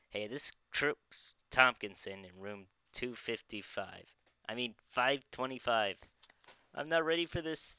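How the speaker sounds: loud menacing phone threat; angry threat. Acted. Prank caller threatens a neighbour.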